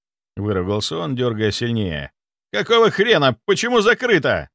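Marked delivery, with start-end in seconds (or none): 2.5-4.5 furious outburst. Acted. Nikolai raging at locked door.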